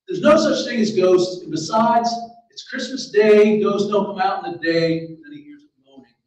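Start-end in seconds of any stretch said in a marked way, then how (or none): 0.1-5.0 loud, slow, emphatic reasoning; raised, deliberate denial; insistent self-convincing. A narrator's reading. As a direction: argue it firmly to talk yourself out of fear. Character reassures himself about ghosts.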